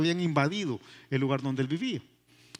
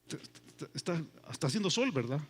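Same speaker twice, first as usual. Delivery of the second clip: much lower and softer, calm and knowing; God's voice; 4 semitones lower, 7 dB quieter than usual. Acted. God gently questions the angry prophet, low and soft. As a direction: speak as a patient God, low and hushed. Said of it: "viene Dios y le dice".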